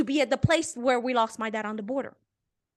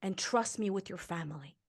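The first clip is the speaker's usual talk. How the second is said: voice of God; 3 semitones lower, 7 dB quieter than usual. Retold or imitated. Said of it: "he heard".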